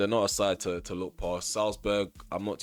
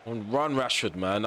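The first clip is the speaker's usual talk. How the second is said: ordinary delivery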